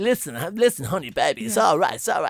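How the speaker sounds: campest possible, reassuring voice. Retelling reading in for Dunphy at a rehearsal: camp Dunphy voice. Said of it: "the gayest Dunphy".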